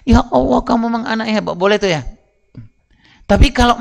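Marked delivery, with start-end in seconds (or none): 0.0-1.5 a lightly hammed-up proud dad; mock-delighted father praising his kid; enthusiastic praise. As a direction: gush over the child's good grade. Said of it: "ayah boleh ngomong gini".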